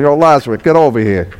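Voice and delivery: lightly voiced street callout; a hint of a Brooklyn guy hollering for his friend; Brooklyn style call. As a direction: toss it off like calling a buddy on the block. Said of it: "That's how we would do it in Brooklyn".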